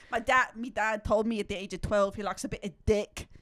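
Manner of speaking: mock British lad confiding; imitated British accent. Joking as the player about his dad, mock British accent. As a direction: put on a British lad's accent. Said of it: "making fun of accents".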